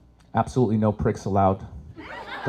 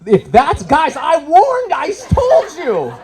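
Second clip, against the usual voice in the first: laughing; 6 dB louder, slower than usual. Real, not acted. Laughing at audience reaction, high pitch.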